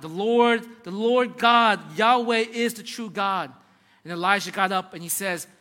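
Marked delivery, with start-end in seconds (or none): 0.0-3.5 loud, drawn-out proclamation; crying out. Retold or imitated. Crowd bowing after the fire falls, crying out. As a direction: cry it out slowly, as an awed crowd. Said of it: "They cried".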